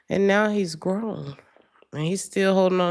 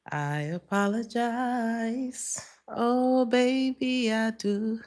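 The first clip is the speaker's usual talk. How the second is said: pleading apology; 5 semitones higher, much slower than usual. Retold or imitated. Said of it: "I heard".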